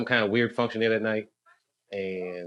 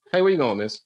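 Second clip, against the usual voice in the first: higher mock voice of a guy calling after a woman; guy hitting on her; 4 semitones higher, 4 dB louder than usual. Comedian voicing a crude guy calling after a woman, mock high. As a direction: ham up a crude guy heckling a passerby.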